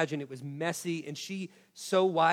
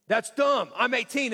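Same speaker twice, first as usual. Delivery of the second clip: put-on raised, louder teen retort; dismissive teenager; 5 semitones higher, 5 dB louder than usual. Son answering dad's threat in the parking lot, dismissive. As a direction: imitate a son scoffing at his dad.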